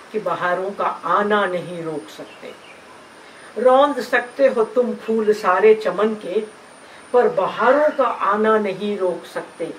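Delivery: measured, rhythmic verse recital; poem recitation. Acted. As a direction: recite the verse in steady, stressed phrases. (लय में नज़्म का पाठ)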